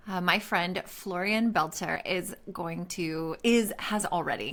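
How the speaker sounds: tripping over the words; stumbling, restarting the sentence; stuttering. Real, not acted. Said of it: "I'm stuttering over this".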